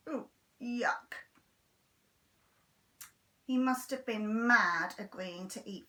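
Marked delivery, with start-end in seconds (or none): 0.1-1.1 unvoiced whispered yuck; whispered disgusted thought. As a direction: think it in disgust.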